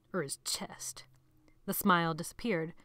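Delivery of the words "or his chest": slow, sinister whisper; menacing whisper. A narrator's reading. Sebastian whispering a threat to the captive boy. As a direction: breathe the threat slowly.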